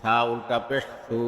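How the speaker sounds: final "সু" held long; drawn-out vowel. Shown as a demonstration. Teacher demonstrating ulta pesh, long "সু". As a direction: stretch the last "সু" for one alif. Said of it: "একালিপ টেনে পড়তে".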